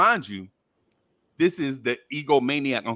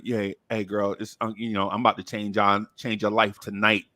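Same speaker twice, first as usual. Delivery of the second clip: pick-up line; 7 semitones lower than usual. Retold or imitated. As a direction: imitate yourself chatting up a girl, pitched down. Retells his pick-up line.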